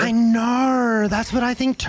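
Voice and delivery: loud, high Australian wail; Australian princess. Acted. Princess agreeing the prince would love her, wailing Australian accent. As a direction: cry it out as an overblown Australian princess. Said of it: "she was an Australian princess".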